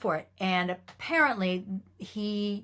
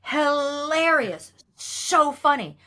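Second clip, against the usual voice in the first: slow, giggly, amused; laughing; 7 semitones higher, 5 dB louder, much slower than usual. Real, not acted. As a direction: laugh through the words. Laughing recalling the scene.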